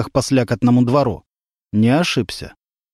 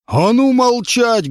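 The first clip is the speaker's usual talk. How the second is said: roaring into the mic; 9 semitones higher, much slower than usual. A narrator's reading. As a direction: silence the whole bus. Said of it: "громко заревела она в микрофон". (водитель ревёт в микрофон, медленно и громко)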